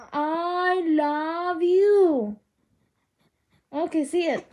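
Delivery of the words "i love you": slow, drawn-out endearment; doting singsong coo. Real, not acted. Cooing love to a baby.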